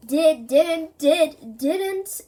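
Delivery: loud back-and-forth squabble; bickering. Acted. Two friends bicker back and forth.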